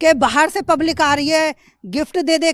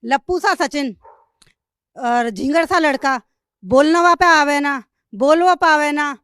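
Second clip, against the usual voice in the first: measured catchphrase delivery, phrase by phrase; punchy scornful recital, line by line; viral dialogue recital. Shown as a demonstration. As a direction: recite your famous put-down with pauses between phrases. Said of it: "चार लाइनें क्या बोल दी थी".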